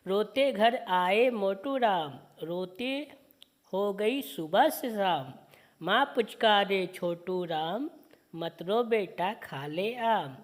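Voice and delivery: slow, sing-song poem reading; poem recitation. Acted. Teacher reciting a children's poem slowly to students. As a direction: recite each line slowly for the class.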